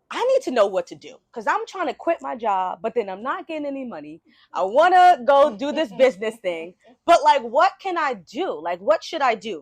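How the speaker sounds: retold pleading with rising insistence; urgent appeal. Nephew phoning his uncle for career advice, urgent appeal.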